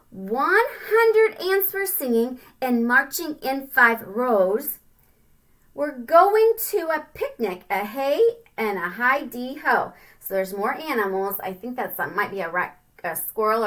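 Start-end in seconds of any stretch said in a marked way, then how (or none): 0.1-9.9 sing-song storybook reading; rhyming read-aloud. A narrator's reading. Parent reading a rhyming picture book to a child, sing-song. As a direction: bounce through the rhyme for kids.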